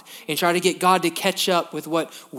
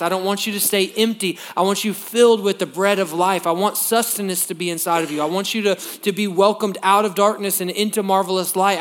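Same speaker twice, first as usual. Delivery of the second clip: louder, pleading invitation in Jesus' voice; voicing Jesus; 3 semitones higher, 4 dB louder than usual. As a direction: plead like Jesus calling people in. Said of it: "that he's showing".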